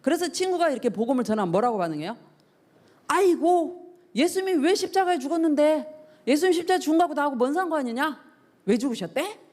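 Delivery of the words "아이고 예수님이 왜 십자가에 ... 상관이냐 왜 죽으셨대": acted scoffing friend, pitched higher; mocking scoff. Unbelieving friend answering someone sharing the gospel, mock scoffing. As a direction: play an unconvinced friend brushing it off. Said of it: "이러면서 막 비웃어요".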